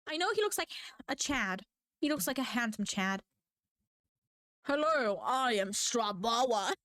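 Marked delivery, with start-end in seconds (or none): 4.6-6.7 silly character voice. Pretend. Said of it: "Don't ask about the Strabawa".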